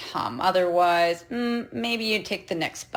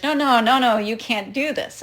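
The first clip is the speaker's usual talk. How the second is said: a raised, hammed-up no, no, no from the driver; mock yelling driver; 4 semitones higher than usual. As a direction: imitate him yelling in protest, half-playful. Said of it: "the guy's yelling at me in Spanish".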